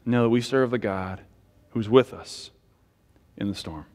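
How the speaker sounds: steady, earnest pastoral prayer voice; closing prayer. Acted. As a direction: pray over the congregation, calm and sincere.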